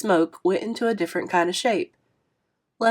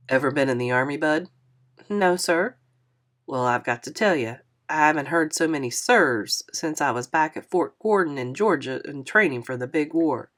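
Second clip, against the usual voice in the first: put-on a touch lower, friendly older man apologizing; lightly voiced kindly driver, a bit lower; 4 semitones lower than usual. Narrator voices Mister Lewis.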